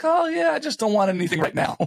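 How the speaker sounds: high-pitched mock nonchalance; playing it cool. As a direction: pretend breezily that you don't care. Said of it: "play it cool and be like".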